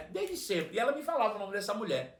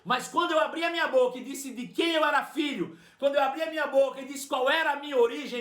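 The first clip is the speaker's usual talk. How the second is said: higher, rising fervent sermon; preaching; 5 semitones higher than usual. Acted. Preacher declaring to the church, fervent preaching. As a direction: proclaim it to the congregation.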